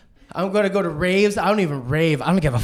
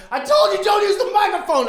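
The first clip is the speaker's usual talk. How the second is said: higher, a touch louder stern dad; mock scolding dad; 13 semitones higher, 3 dB louder than usual. Dad tells son off about the mic, mock scold. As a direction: scold the kid sharply.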